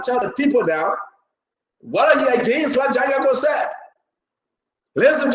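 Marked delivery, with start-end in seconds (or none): 1.8-3.7 challenging shout. Real, not acted. Host challenges absent official.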